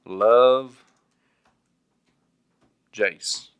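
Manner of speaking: slow, polite letter read while typing; slow typing dictation. Shown as a demonstration. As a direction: sign off sweetly. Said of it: "Here, I'll do it right now".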